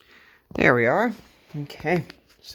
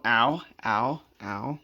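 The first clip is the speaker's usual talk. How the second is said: stubbed toe; 3 dB quieter, slower than usual. Real, not acted. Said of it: "Sorry, I just stubbed my toe".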